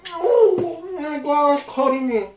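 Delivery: high laughing wail; laughing pain. Real, not acted. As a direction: laugh through the sting. Sour candy hurts mouth.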